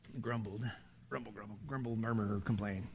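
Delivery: low grumbled mutter, very soft; grumbling. Acted. Preacher mimicking Israelites in the desert, grumbling. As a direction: mumble it low under your breath.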